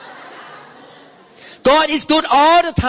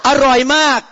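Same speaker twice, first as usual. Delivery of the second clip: Thai delight; 3 dB louder than usual. Retold or imitated. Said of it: "What you say".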